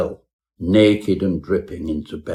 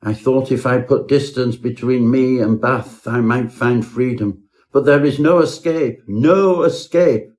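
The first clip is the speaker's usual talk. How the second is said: desperate cry; 3 semitones higher than usual. Acted. Turt admits his flight was useless, rising panic. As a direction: build from telling to a hopeless cry. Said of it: "cried Turt".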